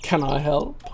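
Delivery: put-on a suave charmer in a mild German accent. Gavin greeting the girl in a German accent. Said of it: "I gotta put on the German accent".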